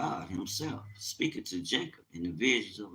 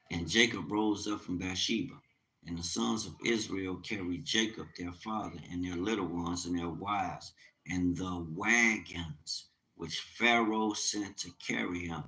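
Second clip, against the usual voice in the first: scripture reading. Acted. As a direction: read the verse with reverence. Reads scripture aloud.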